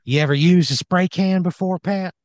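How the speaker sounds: high, rising in-character question; Randy Wrench. Acted. Randy quizzes player on spray cans, high bold challenge. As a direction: start loud and climb in pitch. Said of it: "He says".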